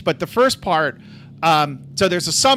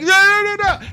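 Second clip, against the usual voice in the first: high-pitched, loud mock protest; imitated crying boy; 13 semitones higher, 5 dB louder than usual. Robbie answering his mom behind the door, mock wail. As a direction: imitate a kid wailing back in protest. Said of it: "and Robbie's like".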